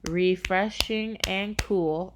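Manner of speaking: slow, syllable by syllable; counting syllables. Shown as a demonstration. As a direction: break "refreshing and cool" into its five beats. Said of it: "that's five syllables".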